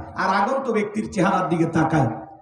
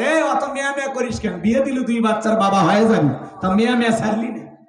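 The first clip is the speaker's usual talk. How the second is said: mild irritated mother; 2 semitones higher than usual. Retold or imitated. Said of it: "মাও রাগান্বিত বলে".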